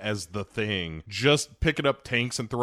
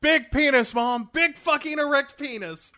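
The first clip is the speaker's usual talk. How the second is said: anguished yelling; 14 semitones higher than usual. Retold or imitated. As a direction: scream it in despair. Quoting Born on the Fourth.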